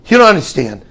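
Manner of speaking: high, loud, mock-frantic complaint; worried wife. Wife waking her husband at night, mock-frantic worry. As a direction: imitate her rattling on in a loud fluster. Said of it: "very, very worried about something".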